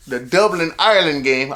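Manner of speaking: mock Irish lilt on the place names; hint of a hammed-up Irish accent; bad Irish accent. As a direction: attempt a joking Irish accent, badly. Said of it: "I don't know why I did that. I'm sorry, Irish people".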